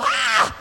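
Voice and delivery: love-making cry. Acted. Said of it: "make love and go".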